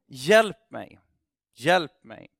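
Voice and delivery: loud desperate cry for help; calling out for help. Retold or imitated. Climber hanging in the dark, calls to God loudly. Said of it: "börjar han ropa på Gud".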